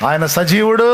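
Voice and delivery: ringing high shout of faith; triumphant proclamation. Real, not acted. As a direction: proclaim it out to the whole congregation. Same declaration repeated triumphantly.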